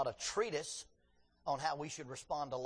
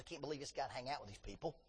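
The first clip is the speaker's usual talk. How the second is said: disdainful mutter; 2 semitones lower, 6 dB quieter, faster than usual. Retold or imitated. Voicing the elite's disdain.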